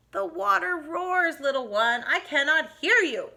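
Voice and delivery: unhurried mother brushing him off; mother's voice. Acted. Mother who cannot hear her son over the water, lightly voiced. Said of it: "said his mother".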